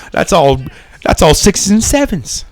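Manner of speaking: bad British accent, pitched high; hammed-up British accent, tossing out slang; Don Cheadle. Parodying a film's British slang, in a bad British accent. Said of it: "describe this in a British accent".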